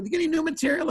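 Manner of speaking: high mock voice of an unimpressed fan; lightly mocking unimpressed voice; unimpressed audience member. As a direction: squeak it out like a bored fan. Audience member's reply retold.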